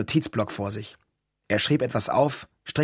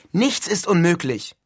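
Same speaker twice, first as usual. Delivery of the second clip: higher, slow, emphatic optimism; grinning confidence; 6 semitones higher, 4 dB louder, slower than usual. A narrator's reading. Neil reassures his doubtful roommate, grinning confidently. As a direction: savour each word with a grin. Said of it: "sagte Neil grinsend".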